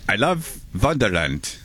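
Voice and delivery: a hint of a slow Viking accent on "I love Wonderland"; lightly done Viking accent. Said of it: "Viking accent".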